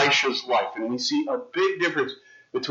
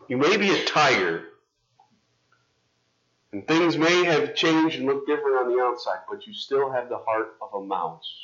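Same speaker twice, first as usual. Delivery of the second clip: wise wizard; 4 semitones lower than usual. Acted. Wizard telling the tiger the truth, low and grave. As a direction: deliver the moral gravely. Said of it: "the wizard says to the tiger".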